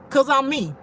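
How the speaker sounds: ordinary delivery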